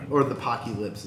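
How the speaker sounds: Pocky Lips, two clipped words like a slang name; "Pocky Lips" in the garbled way the third film says it; quoted mispronunciation. Retold or imitated. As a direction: say "Pocky Lips" as POCK-ee LIPS, mangling apocalypse. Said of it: "as they call it in the third one".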